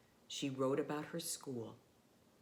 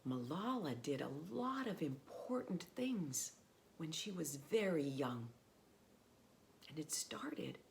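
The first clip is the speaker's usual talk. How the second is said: whisper. Acted. Shares a secret with children.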